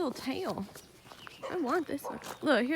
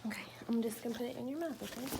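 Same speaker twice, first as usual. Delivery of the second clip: whisper; 6 dB quieter, much faster than usual. Real, not acted. Giving medicine to a puppy.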